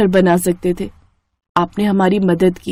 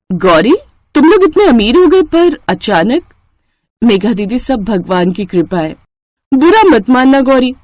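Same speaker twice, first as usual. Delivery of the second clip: scheming elder sister; 2 semitones higher than usual. Acted. Narrator voices the scheming elder sister. (ऊँची, तीखी आवाज़ में ताना मारती बड़ी बहन)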